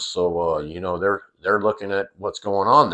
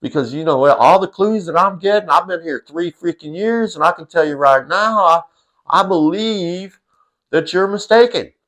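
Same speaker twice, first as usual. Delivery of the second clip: put-on quizzical toddler; 8 semitones higher than usual. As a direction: stretch it out high like a puzzled kid. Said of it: "he had that look on his face like".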